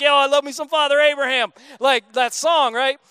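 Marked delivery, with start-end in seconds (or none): 0.0-1.5 put-on old school Christian. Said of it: "old school Christians are like".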